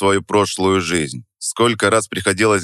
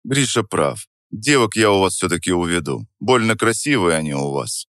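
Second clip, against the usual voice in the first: невозмутимо. Acted. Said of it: "с той же невозмутимостью".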